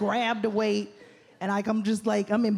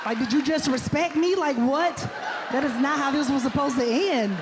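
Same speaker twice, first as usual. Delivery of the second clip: comic rant; 4 semitones higher than usual. Real, not acted. Comic rant about the catcaller.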